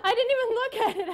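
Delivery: trembling with emotion; shaking voice. Real, not acted. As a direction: voice shaking, laughing. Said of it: "oh, I'm shaking".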